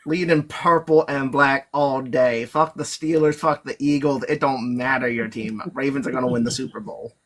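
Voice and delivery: mock southern accent, loud and proud about his team. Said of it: "I lost the Southern".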